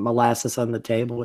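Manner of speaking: "molasses on the table" with tongue held, mushy and blurred; holding tongue with fingers. Shown as a demonstration. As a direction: say "molasses on the table" while pinching your tongue. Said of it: "if you hold your tongue and say".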